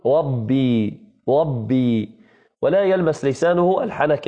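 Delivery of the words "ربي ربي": ربي with the ra turned to a glide, the tongue not touching the palate; mock lisp, ربي said without a real ra. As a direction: imitate a childish lisp on the ra of ربي. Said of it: "تسمعه يقول".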